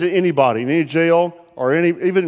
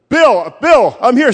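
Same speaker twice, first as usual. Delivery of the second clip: calling out; 5 semitones higher, 4 dB louder, slower than usual. Retold or imitated. Calling to man on cliff.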